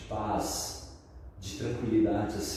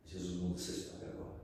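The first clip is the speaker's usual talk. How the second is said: quick, low, much softer line; hushed, lowered pastor's promise; 4 semitones lower, 11 dB quieter, faster than usual. Retold or imitated. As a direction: drop low and say it quickly, softly. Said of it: "ele falou".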